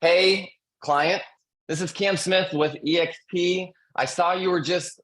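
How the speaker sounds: upbeat sales call opener. Shown as a demonstration. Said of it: "goes like this".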